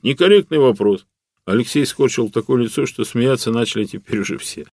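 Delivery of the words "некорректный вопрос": mimicking the AI. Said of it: "он мне в ответ".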